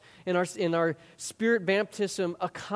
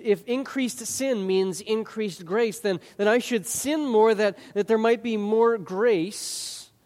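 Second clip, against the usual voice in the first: mock reasoning; 5 semitones higher, 5 dB louder, slower than usual. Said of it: "if we have this mindset".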